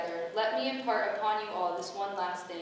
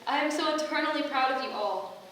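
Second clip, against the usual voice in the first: a goddess beaming at her chosen; proud goddess; 4 semitones higher, 4 dB louder than usual. Acted. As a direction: swell with pride over her children. Goddess addresses her heralds proudly.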